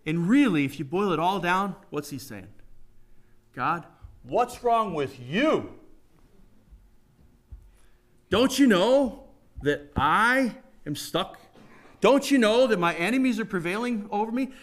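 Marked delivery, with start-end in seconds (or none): 3.5-14.5 angry complaint to God. Retold or imitated. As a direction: let the frustration grow line by line until it bursts out.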